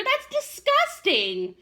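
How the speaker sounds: very high, slow, loud disgusted squeal; shrieking disgust. Acted. Chester disgusted by worms, high drawn-out squeal. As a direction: drag it out totally grossed out. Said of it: "shrieked Chester".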